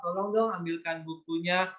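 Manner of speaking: put-on child politely asking for the book; polite request. Shown as a demonstration. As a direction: ask a parent kindly, no bossing. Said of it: "minta tolong apa?".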